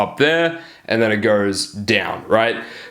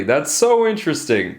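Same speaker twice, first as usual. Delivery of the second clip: higher, fawning interest; supplicating, pitched up; people pleasing; 4 semitones higher than usual. Shown as a demonstration. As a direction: lay on the eager-to-please interest. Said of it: "So that's people pleasing".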